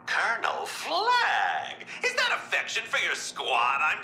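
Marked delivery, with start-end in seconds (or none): 0.0-1.8 drawn-out mock hail. Joker teasingly hails the colonel.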